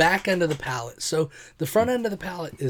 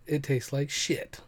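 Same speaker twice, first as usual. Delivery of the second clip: disgusted; 3 dB quieter, slower than usual. Real, not acted. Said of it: "It doesn't taste like mango".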